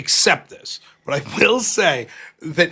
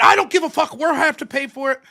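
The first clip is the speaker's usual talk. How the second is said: angry dad; 5 semitones higher than usual. Retold or imitated. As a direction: bite back at the kid like a furious father. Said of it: "My dad was fucking livid".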